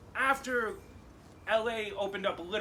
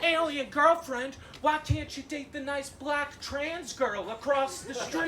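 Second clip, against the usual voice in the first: put-on old man voice; 6 semitones higher than usual. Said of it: "the old man voice".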